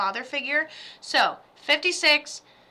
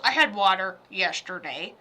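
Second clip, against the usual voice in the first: lightly voiced dad, lower pitch; imitating dad; 5 semitones lower than usual. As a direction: drop lower to quote Dad. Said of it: "He goes".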